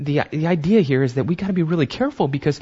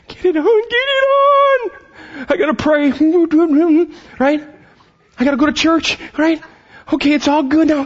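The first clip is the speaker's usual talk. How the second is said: very high, louder, strained caricature voice; hammed-up anxious believer checking off chores; frantic churchgoer; 6 dB louder than usual. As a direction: squeal the religious to-do list in a panic. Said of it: "That's a perfect picture of how many of us".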